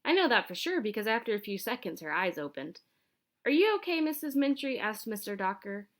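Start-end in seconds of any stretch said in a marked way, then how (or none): 3.4-4.8 worried question. Acted. Teacher checks on hurt lady.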